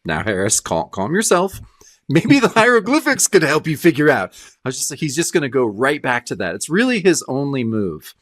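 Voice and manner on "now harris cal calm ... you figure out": mock self-calming. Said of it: "he's talking to himself".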